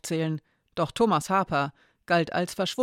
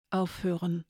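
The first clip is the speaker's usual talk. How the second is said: pinched voice; 5 dB quieter than usual. A narrator's reading. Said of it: "presste sie hervor".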